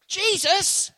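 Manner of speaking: high, loud desperate shout of a name; panicked disciple yelling for help; desperate cry. Acted. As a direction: cry out to him as the boat sinks. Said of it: "Listen to what the disciples did".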